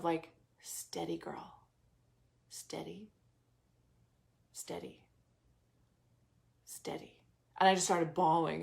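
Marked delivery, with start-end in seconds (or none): 0.6-7.1 hushed, unvoiced whisper, slow and calming; whispered inner voice. Her heart whispering to her during meditation, hushed whisper. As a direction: breathe it out like a soothing inner voice. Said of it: "this deep voice of".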